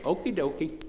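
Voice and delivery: a light imitation of his daughter's chirpy okie dokie. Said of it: "That's how she speaks".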